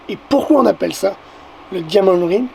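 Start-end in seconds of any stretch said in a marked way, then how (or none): 1.7-2.5 English words in a French accent. Real, not acted. Vlogger naming the eclipse phase, French-accented English. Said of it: "Avec mon superbe accent anglais".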